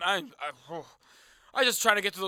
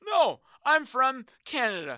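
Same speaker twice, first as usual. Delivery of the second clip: defiant answer; 2 semitones higher, slower than usual. Acted.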